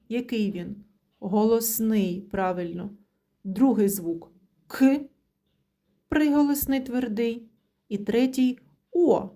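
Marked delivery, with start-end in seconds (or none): 3.4-5.0 К drawn out slowly as "ки" with a rising tune; slow sound-out. Shown as a demonstration. Teacher sounding out the word for children, slow and rising. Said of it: "teacher sounds out the word".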